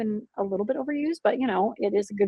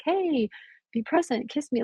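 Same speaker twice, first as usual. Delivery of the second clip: coaxing husband; 5 semitones higher, 5 dB quieter than usual. Retold or imitated. Husband coaxing her back to attention.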